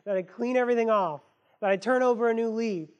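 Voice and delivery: fast, eager resolution, rushing to fix it all; hurried earnest self-talk. Retold or imitated. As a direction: talk yourself into a fresh start, quickly. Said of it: "they think".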